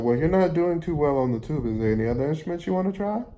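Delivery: teacher impression. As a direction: rattle it off like the chirpy teacher. Teacher voiced in the story.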